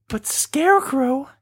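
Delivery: put-on high, slow girlish Dorothy voice. Host retelling Wizard of Oz, slow mock Dorothy. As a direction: draw out the last farewell sweetly. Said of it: "then she's like".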